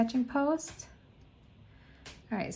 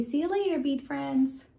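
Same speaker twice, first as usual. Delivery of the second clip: voicing the cat; 5 semitones higher than usual. Voicing cat's goodbye.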